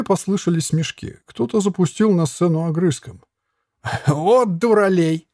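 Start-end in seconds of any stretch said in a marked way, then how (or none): 4.1-5.3 laughing. A narrator's reading. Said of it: "затрясся от хохота".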